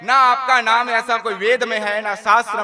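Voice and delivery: loud, indignant protest; astonished Lakshmi. Acted. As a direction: insist no scripture has such a name. (Lakshmi का ऊँचा, हैरान विरोध)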